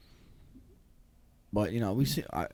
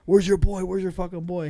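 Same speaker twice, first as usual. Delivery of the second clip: retold demand; 5 semitones higher, 5 dB louder than usual. Friends confronting the buddy.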